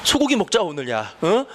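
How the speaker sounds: mock-praise from an annoyed dad; 화난 아빠의 반어적 칭찬. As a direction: act out a dad's sarcastic congratulations, lightly. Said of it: "그래서 아빠가 화가 나는데". (화난 아빠가 비꼬듯 칭찬하는 말투)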